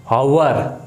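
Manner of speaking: हावर with a spoken h at the start; हावर said with an audible h before the vowel; wrong h sound. Shown as a demonstration. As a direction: voice the h in हावर as in how. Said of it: "ऐसे थोड़ी बोलेंगे".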